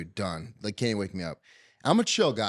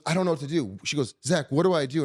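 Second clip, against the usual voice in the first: higher-pitched imitation of helpless worry; retold pleading; 3 semitones higher than usual. Wife asking husband what to do, mildly frantic. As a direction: imitate a wife begging for an answer.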